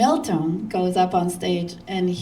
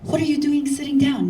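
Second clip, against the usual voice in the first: surprised Milton; 6 semitones higher than usual. Retold or imitated. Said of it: "Milton goes".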